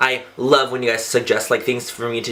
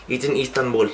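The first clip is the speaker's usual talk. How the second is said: mock Turkish accent. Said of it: "I don't know what accent that was".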